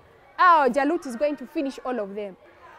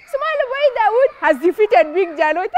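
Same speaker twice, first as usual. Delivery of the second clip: pitched-up, merry announcement; gleeful crowing; 3 semitones higher, 3 dB louder than usual. Acted. Celebrating crowd laughing over the small boy's win, gleeful. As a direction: announce the upset with glee. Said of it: "They start laughing".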